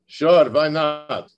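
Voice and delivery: put-on slow, loud, casual Israeli accent; heavy Israeli accent. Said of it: "in his heavy Israeli accent".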